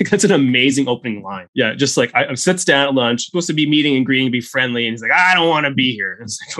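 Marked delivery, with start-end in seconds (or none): 5.1-6.1 put-on higher, lightly Texan old man; hammed-up Texan grumble; Texan accent. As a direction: imitate a reluctant old Texan. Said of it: "accent every single time".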